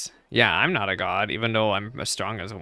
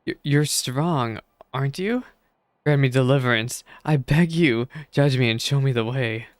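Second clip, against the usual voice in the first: pleading merchant; 3 semitones higher than usual. Acted. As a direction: beg with a catch in the throat. Desperate merchant begs for help.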